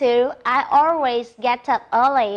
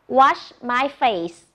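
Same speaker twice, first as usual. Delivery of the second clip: slow model; much slower than usual. Shown as a demonstration. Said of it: "Look at the picture and say".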